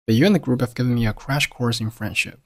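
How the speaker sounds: "you and", "group of", "course in" each run together; connected speech. Shown as a demonstration. Teacher stringing the sentence together for learners, fully linked. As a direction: link the words, stressing "crash course". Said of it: "串起来读成了".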